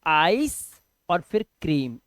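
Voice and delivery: आइस and क्रीम said as two separate pieces; teacher splits आइस from क्रीम; sounding out. Shown as a demonstration. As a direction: break ice cream into आइस, a pause, then क्रीम. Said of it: "इसे बोलते हैं आइसक्रीम".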